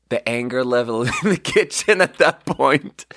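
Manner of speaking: a laugh slipping into the words. Real, not acted. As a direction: chuckle through it. Laugh breaks into narration.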